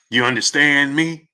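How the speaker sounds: lightly mimicked, drawn-out question; mock dropped voice. Host mocking the boxer's odd delivery, lightly put-on voice. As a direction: mimic his put-on delivery, only slightly altered. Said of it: "Why did he drop his voice like that?".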